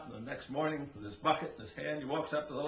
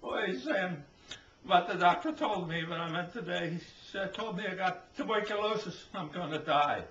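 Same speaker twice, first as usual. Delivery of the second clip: mock wailing wife; 4 semitones higher than usual. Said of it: "he finds Becky crying".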